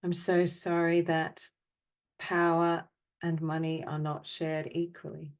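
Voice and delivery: measured phrases with long silences between; guided apology meditation. Acted. Meditation leader offering apologies for the world's imbalance, measured and solemn. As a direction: recite each apology evenly, leaving space to feel.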